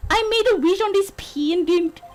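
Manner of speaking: attempted Scottish lilt; Scottish accent. Bride shows her pendant to her lawyer, in an attempted Scottish accent. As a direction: put on a makeshift Scottish accent. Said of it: "could do a Scottish accent".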